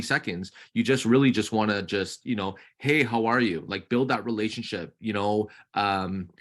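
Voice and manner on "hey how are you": peppy greeting. Shown as a demonstration. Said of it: "feel peppy".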